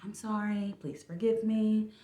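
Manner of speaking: slight lisp, retainers in; talking around retainers. Real, not acted. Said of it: "I got my retainers in right now, so if, if it's a little lispy".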